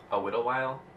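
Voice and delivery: sighing, exasperated "A whittle while?". Real, not acted. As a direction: sigh at the slip "whittle". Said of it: "sighs, A whittle while?".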